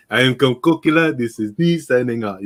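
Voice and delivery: hammed-up fake African accent; Count Cucula African accent. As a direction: put on a mock African accent for a sign-off. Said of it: "I put on a fake ass African voice".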